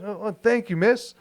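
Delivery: quick and high; lightly voiced street musician; high excited thanks. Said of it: "quoting Howard".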